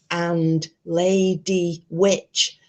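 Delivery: slow, drawn-out mimicry of a ranting YouTuber; lightly put-on voice, not her accent; mock Lady Witch. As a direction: stretch it out with a rising end, mocking her. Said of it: "uncalled for punctuations in between each word".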